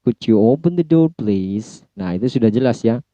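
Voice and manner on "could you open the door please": request intonation. Shown as a demonstration. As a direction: ask courteously, easing off on "please". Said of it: "request use lower intonation". (permintaan sopan, "please" diturunkan)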